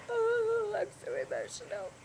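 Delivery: high squeaky "Oh", then drops; hammed-up self-mockery of being teary; mock dramatic. To her husband after crying at a message: mock dramatic whine.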